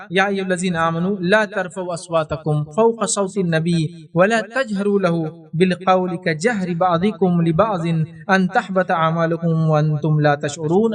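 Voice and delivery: slow measured chanting of the verse; Quran recitation. Acted. Preacher recites the verse to the congregation, slow chant. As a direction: recite it slowly with reverence.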